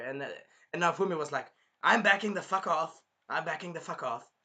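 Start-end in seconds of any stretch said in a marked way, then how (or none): 1.8-3.0 higher, louder blurted retreat; mock alarm. Naofumi backing away from the girl, mock alarmed. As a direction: act out a startled back-away.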